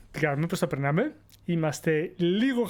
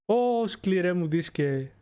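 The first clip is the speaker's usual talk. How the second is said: mock dramatic ode; much slower than usual. Addressing his hard drive.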